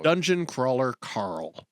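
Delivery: slowly enunciated title; slow careful title. Shown as a demonstration. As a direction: say each word slowly and clearly. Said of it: "Say the title".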